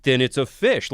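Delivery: smug tourist. Retold or imitated. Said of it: "He's like".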